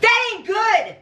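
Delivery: angry retort. Real, not acted. Wife angry at drug deal.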